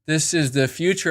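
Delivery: low, slow, half-hushed metaverse devotee; mock hype believer. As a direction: intone it like a hypnotized convert. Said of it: "more and more people are like".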